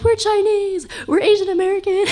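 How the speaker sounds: high, bright sing-song declaration; cheerful mom announcement. Retold or imitated. Mom cheerfully telling her daughter about heritage, high sing-song. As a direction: chirp it up high like a proud mom. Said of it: "so I'm always like".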